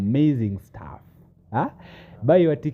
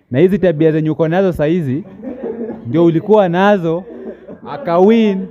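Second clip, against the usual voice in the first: laughing; 6 semitones higher, 5 dB louder than usual. Real, not acted. Laughing accusation among friends.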